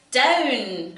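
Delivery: loud sharp cry of "Down!"; cried out. A narrator's reading. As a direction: shout it down to the ground. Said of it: "cried the witch".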